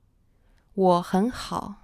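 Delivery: "我很好" said slowly, each syllable and tone clear; slow model sentence. Shown as a demonstration. Teacher modelling "我很好" slowly for learners. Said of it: "Some examples would be".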